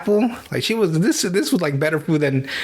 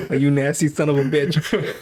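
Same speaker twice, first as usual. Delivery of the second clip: slow, mock-disgusted jab; mock disgusted insult. Viewer mock-cursing the actor stuffing his face, slow and disgusted. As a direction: spit it out slowly like a half-joking insult. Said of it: "So I was so fucking mad".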